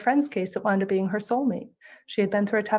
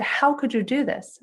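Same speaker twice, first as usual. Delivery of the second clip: irate doctor; 4 semitones higher than usual. Retold or imitated. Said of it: "He was irate, he was furious".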